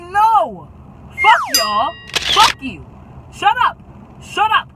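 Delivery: high, loud snapping back; angry retort. Retold or imitated. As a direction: shut the friends down angrily. Retold angry retort to friends.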